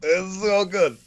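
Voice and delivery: delighted gush. Acted. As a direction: squeal with joy over the gift. Player gushing over gift.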